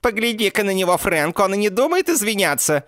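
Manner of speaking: put-on high, loud, shrill girlfriend cry; Mandy's shrill shout. A narrator's reading. Mandy shouts at Frank, egging him on, high and loud. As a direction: yell it up high and sharp like a trashy girlfriend. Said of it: "выкрикнула тёлка".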